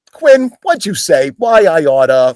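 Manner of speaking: high, loud mock anger, not scary; hammed-up big-guy tantrum; goofy fake anger. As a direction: play mad but harmless and silly. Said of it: "I have to kinda play like".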